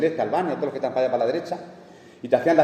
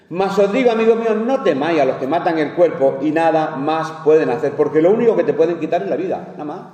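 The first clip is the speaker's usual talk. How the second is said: preaching; 2 semitones higher than usual. Acted. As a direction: proclaim the verse to the congregation. Preacher reading scripture aloud.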